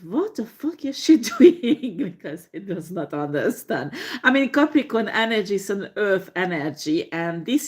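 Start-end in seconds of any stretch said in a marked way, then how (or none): 0.0-2.0 amused, laughing through what the fuck; laughing disbelief. Retold or imitated. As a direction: chuckle as you ask what she's doing. Capricorn watching her, laughing.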